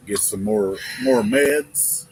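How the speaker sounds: sore, congested throat. Real, not acted. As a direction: talk through a stuffed-up sore throat. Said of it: "You can hear it on him too".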